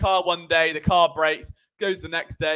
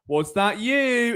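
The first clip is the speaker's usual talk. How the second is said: slow, scolding parent to a puppy; a hint of a parent scolding the dog; little dog voice; 3 semitones higher, much slower than usual. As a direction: ask it slowly like catching a guilty puppy. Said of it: "in that little dog voice".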